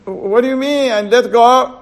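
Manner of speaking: high, loud disbelief; can't believe what he's asked; man on the tree aghast at God's order; incredulous. Acted. Man shocked at the demand.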